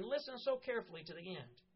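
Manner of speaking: earnest preaching to the congregation; sermon delivery. Real, not acted. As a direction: preach it with conviction.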